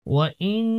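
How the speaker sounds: ইন্না with a long nasal hum on the n; ghunnah. Shown as a demonstration. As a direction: hold the doubled n of ইন্না humming through the nose. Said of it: "গণ্য করতে হবে".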